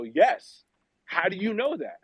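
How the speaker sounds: high-pitched retold amazement; astonished. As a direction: react in amazement, voice jumping up high. Retold shock at stranger knowing story.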